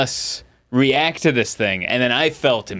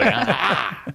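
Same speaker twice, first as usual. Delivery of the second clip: mock pain cry; 8 semitones higher than usual. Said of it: "I'd pull my calf muscle".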